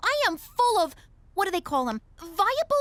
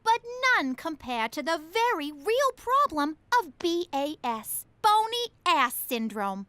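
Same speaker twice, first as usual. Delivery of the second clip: infomercial pitch voice; 3 semitones lower than usual. Acted. Pitches product like an ad.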